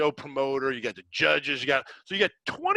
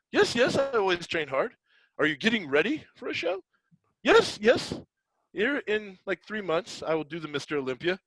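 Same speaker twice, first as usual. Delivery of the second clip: imitating the bodybuilder; 7 semitones higher, 3 dB louder than usual. Voicing bodybuilder answers in story.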